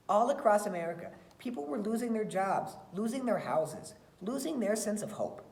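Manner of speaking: put-on expressive read-aloud for children; story reading. Teacher reading a picture book to her class, expressive storytelling.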